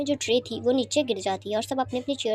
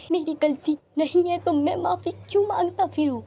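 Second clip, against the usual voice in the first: higher, heated defence; indignant protest; 5 semitones higher, 3 dB louder than usual. Acted. Accused son defends himself to his mother, heated and higher. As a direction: insists he did nothing wrong, voice raised.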